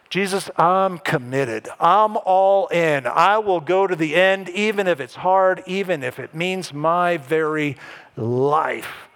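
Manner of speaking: slow, deliberate vow of commitment; acted-out solemn promise; earnest pledge. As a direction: pledge it with mounting weight, then ease down. Voices Peter's pledge of total commitment.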